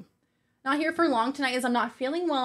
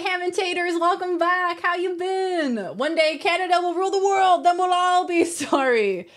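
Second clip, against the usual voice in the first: mock grand proclamation; 6 semitones higher than usual. Reading viewer message, mock grand.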